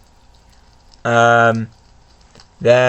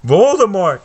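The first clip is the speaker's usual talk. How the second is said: higher, louder gasp of the name; startled recognition; shocked cry; 8 semitones higher, 4 dB louder than usual. Acted. Harry seeing Voldemort, shocked cry.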